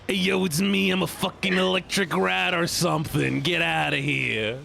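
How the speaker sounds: lightly voiced high cartoon rat, slowing at the end; squeaky joke Pikachu voice. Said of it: "I also do a really good Pikachu".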